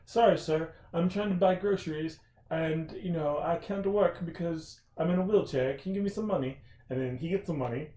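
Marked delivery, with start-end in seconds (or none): 0.0-6.6 a light mock British beggar's voice; hint of a London accent, pleading. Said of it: "That person was from London".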